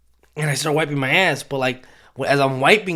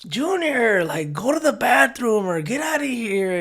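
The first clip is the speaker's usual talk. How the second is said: mock shooing adult; 8 semitones higher than usual. Relative shooing kids away.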